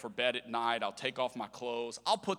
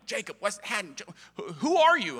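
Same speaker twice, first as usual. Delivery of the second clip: higher mock yell, louder at the end; yelling dad; 7 semitones higher, 7 dB louder than usual. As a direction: imitate a flustered dad fumbling for the name. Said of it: "My dad would go to yell at me".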